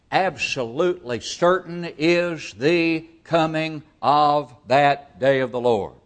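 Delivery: slow, weighty emphasis on the whole phrase; emphatic. Shown as a demonstration. Preacher to his congregation, slow emphatic stress. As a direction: lean on each word, slowly, to drive the certainty home. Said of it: "This is an emphatic statement here".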